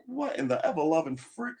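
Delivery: high-pitched retold outburst of disbelief; exasperated disbelief. Viewer reacting to dogs killed in movies, mock exasperation. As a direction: act out a baffled mock outburst. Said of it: "I was like".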